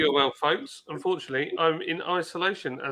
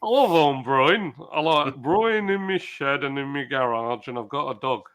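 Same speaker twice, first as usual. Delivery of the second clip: northern accent impression. Imitating Sharky's northern accent to the viewers. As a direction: lightly put on a northern English accent. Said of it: "Like that, that's how he talks".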